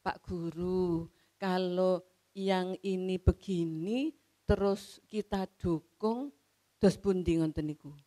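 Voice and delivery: slow, polite asking tone; gently ask, don't accuse; questioning tone. Retold or imitated. Pupil politely questioning the teacher's mistake, slow and deferential. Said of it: "Jadi nadanya nada tanya".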